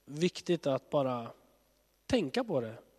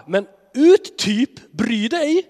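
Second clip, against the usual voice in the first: put-on slow, louder teen brush-off; sulky teenager; 8 semitones higher, 10 dB louder, much slower than usual. People talking back to God like sulky teenagers, slow and loud. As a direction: shrug him off like a moody teen.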